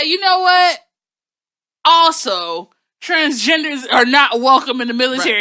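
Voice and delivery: loud mocking Trump; shouted, hammed-up president voice. Acting out Trump's tweet.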